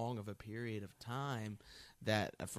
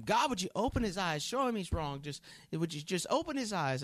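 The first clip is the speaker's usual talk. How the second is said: higher, pleading mock prayer; woman praying; 6 semitones higher, 3 dB louder than usual. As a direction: plead with God half-mockingly to fix him. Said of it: "she was just praying for".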